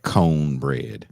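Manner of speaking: "cone" drawn out long for "corn"; slow mock "cone bread", stretching cone; mimicked Atlanta accent. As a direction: imitate her put-on "cone bread". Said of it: "says words that no black people really say".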